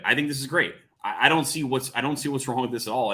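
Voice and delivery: ordinary delivery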